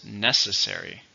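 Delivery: "Necessary" stressed on NE; "Necessary", hitting NE first; stress on first syllable. Shown as a demonstration. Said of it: "Stress on the first one".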